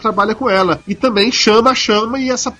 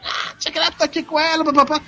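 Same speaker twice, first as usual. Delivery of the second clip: criminal's voice; 6 semitones higher, 5 dB quieter than usual. Retold or imitated. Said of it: "aquela voz do marginal".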